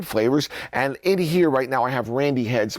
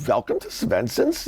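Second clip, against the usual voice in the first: lower, lightly Swedish greeting; Swedish accent; 5 semitones lower than usual. Acted. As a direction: act out the Swedish welcome. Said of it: "Wouldn't you stand there and go".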